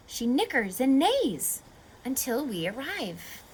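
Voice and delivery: lively storybook read-aloud; reading to children. Acted. Teacher reading a rhyming story to kids, lively. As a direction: read the rhymes to a class, bouncy and clear.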